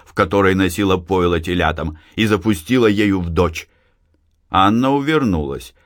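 ordinary delivery, nothing marked

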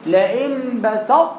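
بسط slow with the tongue resting on ط; habitual reading demo. Shown as a demonstration. Teacher shows how people usually read it, slow. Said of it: "لأن إحنا بنقراها إزاي؟".

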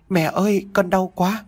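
put-on very high small child's whimper. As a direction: whimper for mom, hurting. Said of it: "Tiếng rên khè khẽ".

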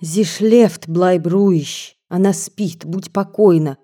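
ordinary delivery, nothing marked

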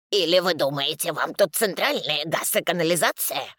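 indignant. Acted. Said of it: "Вдруг возмущается".

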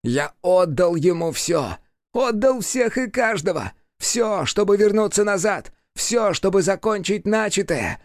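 high, slow bellow; demon yelling. A narrator's reading. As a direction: roar it into the abyss. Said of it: "заорал демон".

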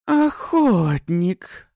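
slow, high, loud reptile snarl; bristling hiss. Acted. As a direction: spit the word like a bristling lizard. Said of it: "ощетинилась рептилия".

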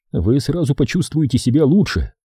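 put-on light touch of an Irish accent. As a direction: slip in a hint of Irish accent. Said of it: "подпустив ирландского акцента".

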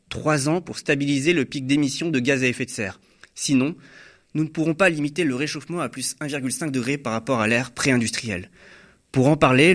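scripted news presenter delivery; news intro read. Acted. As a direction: read it as a programme's opening headlines. Presenter reads the programme intro.

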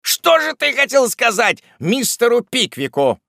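high, loud interrogation; angry shout. Acted. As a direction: yell the question while shaking someone. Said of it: "закричал Уардель".

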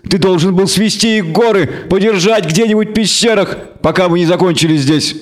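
high-pitched indignant goat devil; bleating devil. A narrator's reading. Devil berating the elf over the prisoners, bleating. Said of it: "Вдруг заблеял дьявол".

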